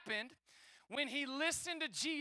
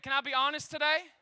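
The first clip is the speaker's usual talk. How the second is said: louder repeat; 6 dB louder than usual. Shown as a demonstration. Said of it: "I said".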